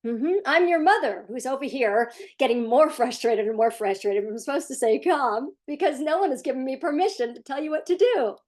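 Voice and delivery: frustrated mother praising Ryan through gritted teeth; mock frustrated mother. Hint of mock frustration. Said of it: "they say".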